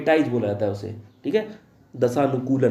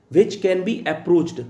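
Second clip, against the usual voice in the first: slow dictation; 3 semitones higher, much slower than usual. Shown as a demonstration. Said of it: "teacher dictates the definition".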